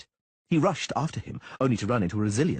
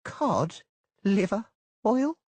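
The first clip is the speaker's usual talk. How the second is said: slow, high disbelieving question; slow enunciation; 12 semitones higher, much slower than usual. Acted. Merchant slowly repeating the purchase in disbelief. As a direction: drag out each word in disbelief. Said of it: "enunciating each word very slowly".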